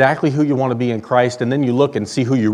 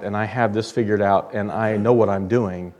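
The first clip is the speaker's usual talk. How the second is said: quiet smug claim; 5 semitones lower, 6 dB quieter than usual. Retold or imitated. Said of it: "the people who said".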